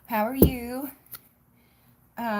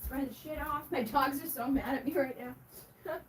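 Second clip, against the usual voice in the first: ordinary talk, nothing marked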